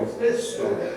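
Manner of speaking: his said high and pointed; stress on his. Real, not acted. Wife teasing husband about his version, stress on "his". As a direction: lean hard on "his". Puns on history.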